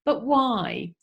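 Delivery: lightly voiced whiny kid; whiny child. Shown as a demonstration. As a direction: whine the question like a little child. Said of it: "Imagine you're saying it in your most whiny voice".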